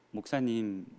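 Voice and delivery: usual speaking voice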